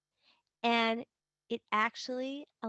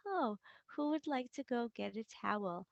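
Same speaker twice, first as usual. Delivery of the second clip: softer, gentle replay of a calm parent; calm and kind; 4 dB quieter than usual. Retold or imitated. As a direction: softly offer the towel, no blame. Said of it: "you stayed calm".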